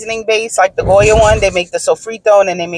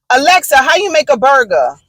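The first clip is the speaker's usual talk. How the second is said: imitating a husband asking Alexa; raised, higher-pitched voice-command question; calling out to Alexa; 6 semitones higher than usual. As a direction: call it across the kitchen.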